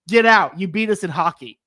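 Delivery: loud, gruff mock rebuke of a Florida customer; angry burger guy. Burger guy yelling at a Florida customer, loud mock anger. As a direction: bark it at the Floridian like a sore hockey fan. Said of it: "he was mad".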